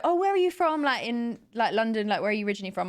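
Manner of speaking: high, chatty imitation of a hairdresser; imitated hairdresser. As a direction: retell her eager question, starting high and loud. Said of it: "she was like".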